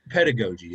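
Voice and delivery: pedagogy with GO in the middle; speaker's preferred pronunciation. Shown as a demonstration. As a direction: say pedagogy with a long O, ped-a-GO-jee. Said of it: "it's pedagogy".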